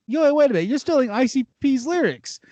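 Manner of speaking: high, indignant catch-out; calling him out. Retold or imitated. Kid calling out a battle rival for stolen lyrics, high indignant.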